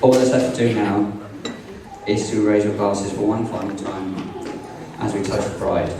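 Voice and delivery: heartfelt groom's toast, read aloud; wedding toast speech. Acted. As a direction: deliver it like a proud groom to the room.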